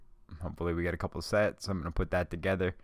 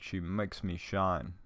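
slow, rough Jamaican impression; amateur Jamaican imitation; bad Jamaican accent; 5 dB quieter, slower than usual. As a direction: draw the words out in a mock Jamaican accent. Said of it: "do my little impression of this guy".

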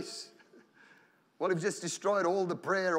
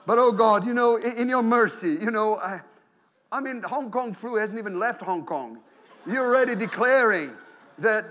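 mock fearful prayer; 3 semitones higher, 4 dB louder than usual. Preacher mimicking a congregant praying for the flu, loud mock pleading. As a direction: ham up the believer already claiming the flu.

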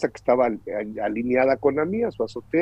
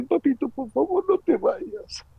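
put-on child pleading; 11 semitones higher than usual. Son begging his father to stay, high and pleading. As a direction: plead gently like a nine-year-old.

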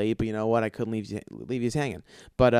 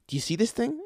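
incredulous; 10 semitones higher than usual. Retold or imitated. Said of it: "I'm like".

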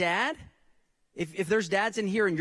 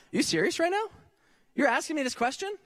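mock-incredulous, pitched up high; 5 semitones higher, faster than usual. Preacher as Gabriel, playfully incredulous at Zechariah. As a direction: act stunned at a silly question. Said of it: "if I'm Gabriel, I'm going".

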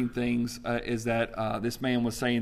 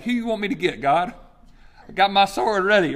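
eager warrior angel; 4 semitones higher, 4 dB louder than usual. Pretend. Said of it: "angels are like".

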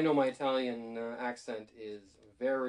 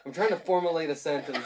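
laughing mock quote; 2 semitones higher, 6 dB louder than usual. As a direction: tease while laughing. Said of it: "Your mocking me".

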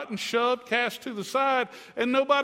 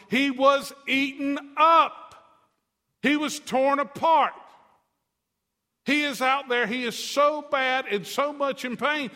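louder, slow and higher, building; fervent preaching; 6 semitones higher, 4 dB louder than usual. Real, not acted. Preacher driving the demoniac's torment home, fervent. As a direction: hammer each line home.

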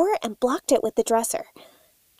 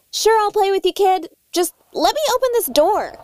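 higher, sing-song humoring; humoring a child; 7 semitones higher, 4 dB louder than usual. Acted. Guest humoring the unseen kid, higher and sweet. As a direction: talk to the kid like humoring him.

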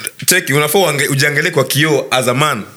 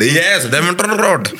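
slow approving repeat; 3 semitones higher, much slower than usual. Retold or imitated. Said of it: "repeat after me".

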